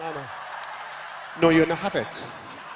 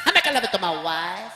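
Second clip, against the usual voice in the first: put-on Italian accent. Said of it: "And the Italian said".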